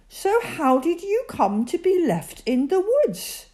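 polite, high little voice; politely. A narrator's reading. Teddy politely asks the lost bear, a polite, high little voice. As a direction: ask nicely, with care. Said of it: "asked Teddy politely".

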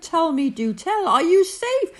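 high, urgent string of questions; crying out in concern. A narrator's reading. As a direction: plead for news, pitch leaping. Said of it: "cried the elephant".

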